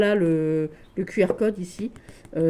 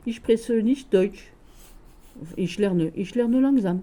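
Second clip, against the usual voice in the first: slow, careful German in a French accent; 2 semitones higher, much slower than usual. Shown as a demonstration. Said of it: "Avec l'accent très français".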